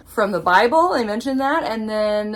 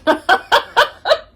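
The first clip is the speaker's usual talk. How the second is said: high giggle; 12 semitones higher, 8 dB louder than usual. Real, not acted. Giggling at a naughty detail.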